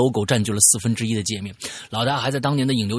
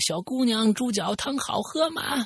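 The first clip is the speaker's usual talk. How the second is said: put-on creepy, mocking voice, pitched higher; 11 semitones higher, 4 dB quieter than usual. Quoting a remembered line from a horror story, imitating a creepy, mocking tone. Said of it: "这句阴-，阴阳怪气的声调从伊里哥的嘴里面说出来".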